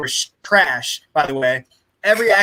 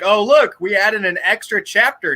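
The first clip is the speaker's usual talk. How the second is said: mocking quote; 5 semitones higher than usual. Mocking the filmmakers' excuse.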